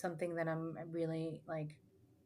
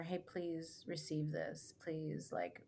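gentle plea; 2 semitones lower, 4 dB quieter, slower than usual. Retold or imitated. Retelling a plea to Mother Earth.

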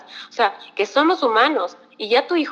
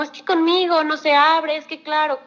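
higher, lightly acted lament; parent's complaint; 5 semitones higher than usual. Parent complaining to the psychologist about a child, mild mock complaint. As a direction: mimic a parent protesting.

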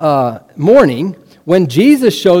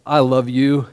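low, soft, fond words; tender affection; 5 semitones lower, 4 dB quieter, slower than usual. Acted. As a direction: say it softly to someone dear. Jesus tenderly to dear disciple.

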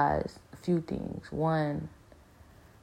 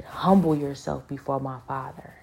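a touch of a mock yell, a bit louder; retold scream; 5 dB louder than usual. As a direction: replay God's rebuke with some force. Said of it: "That's what he screamed at me".

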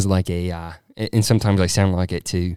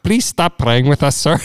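mock Indian accent, pitched up; higher, exasperated Indian accent; exasperated scam caller; 4 semitones higher, 4 dB louder than usual. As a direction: plead as an annoyed Indian caller. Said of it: "And you go".

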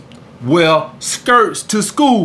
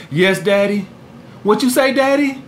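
put-on girly feminine voice. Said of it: "Her whole voice change".

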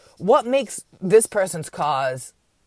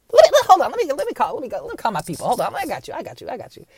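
hammed-up opportunist, loud then hushed; scheming America; 10 semitones higher, 8 dB louder than usual. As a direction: play the fake helper pouncing then soothing. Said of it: "And like".

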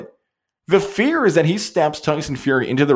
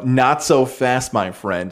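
Lee Corso catchphrase; slower than usual. Retold or imitated. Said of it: "Quote Lee Corso".

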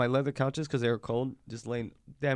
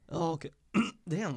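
voice cracking; 5 semitones higher than usual. Real, not acted. Friend reacting to a spelling, voice cracking. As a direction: voice slips up high. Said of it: "My fucking voice just moved".

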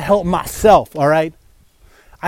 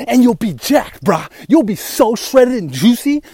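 gym bro voice. Retold or imitated. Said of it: "the jacked guy's like".

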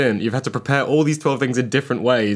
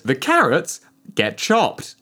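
robot voice; 2 semitones higher, much slower than usual. Retold or imitated. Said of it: "Booming robotic voice".

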